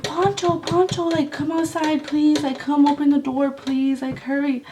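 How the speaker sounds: half-voiced yell for someone to come outside; retold calling out. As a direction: call a name pleadingly, without full volume. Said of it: "I was yelling my boyfriend's name".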